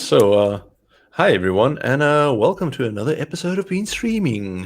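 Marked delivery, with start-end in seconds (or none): 1.1-4.7 on-air broadcast host, radio announcer voice. Opening a stream episode, the host greets everyone in a radio announcer voice. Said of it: "just practicing my radio voice".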